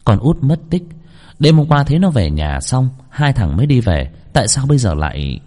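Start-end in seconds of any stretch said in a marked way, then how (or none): 0.1-0.8 disbelief. Acted. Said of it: "đôi mắt trợn như không thể tin nổi".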